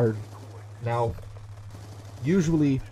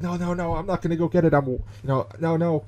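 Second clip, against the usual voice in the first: lightly voiced protesting kid, pitched up; scared younger kid; 5 semitones higher than usual. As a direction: imitate a kid refusing, higher. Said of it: "He's like".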